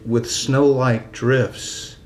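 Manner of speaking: measured, lingering poem recital; deliberate verse cadence with drawn-out line endings; poetry reading. Acted. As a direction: read your poem slowly, phrase by phrase. Reads own poem aloud.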